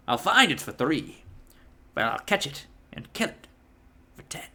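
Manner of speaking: lightly voiced, bad character impression; a half-hearted movie impression, dropping very soft; Quint. Film fan quoting the shark hunter's offer, rough impression. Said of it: "horrible impression I just did".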